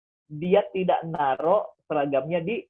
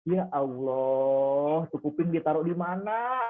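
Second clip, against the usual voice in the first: mock exasperated scolding; much slower than usual. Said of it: "tapi marah dulu".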